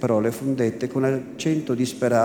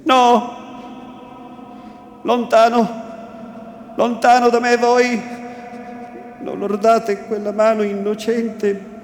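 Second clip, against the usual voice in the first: high, loud voice in an altered tone, pushing him away; anguished shout; 6 semitones higher, 4 dB louder than usual. A narrator's reading. The repentant man telling the bishop to pull back, shouting. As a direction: cry out in anguished refusal, much higher and louder.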